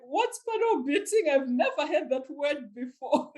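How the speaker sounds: high, puzzled question, mock confusion; imitating a baffled professor. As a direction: play the baffled professor asking. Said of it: "my professor was like".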